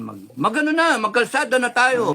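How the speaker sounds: high-pitched mock rallying call; mock agitator. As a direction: imitate someone urging everyone into the streets. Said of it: "hindi yung ganyan".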